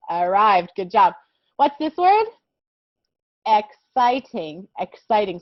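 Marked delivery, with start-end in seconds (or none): 3.5-5.4 exciting said slowly with an X sound, not an E; slow teaching model of exciting; careful exciting. Shown as a demonstration. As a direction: stretch out exciting, starting on the X sound. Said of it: "we're not saying that E sound".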